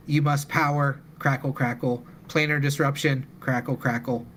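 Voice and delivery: robotic machine voice, stiff and even. Acted. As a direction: speak like a crackling old robot. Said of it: "a faint crackling and a robotic voice saying".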